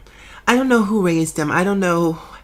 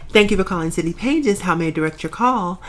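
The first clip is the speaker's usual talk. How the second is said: receptionist voice. Retold or imitated. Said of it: "in my receptionist voice".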